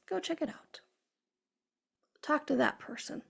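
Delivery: hushed inner prompting; little whispered voice. Retold or imitated. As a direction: drop your volume, like intuition nudging you. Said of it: "that little whispered voice".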